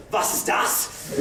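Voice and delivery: put-on slow, whispered German accent. A hushed German "Was ist das?". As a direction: grandfather answers the Jehovah's Witness in slow German accent. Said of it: "in a perfect German accent".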